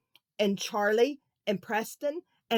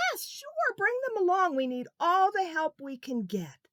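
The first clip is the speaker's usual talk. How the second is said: grandparents' voice; 8 semitones higher than usual. Acted. Grandparents agreeing warmly.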